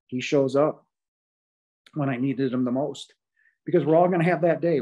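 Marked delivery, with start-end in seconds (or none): 3.6-4.8 louder, higher and fast, driving it home; rising urgency on "all"; emphatic declaration. Real, not acted. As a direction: punch out "we're all gonna have that day" as a warning. Repeated for emphasis.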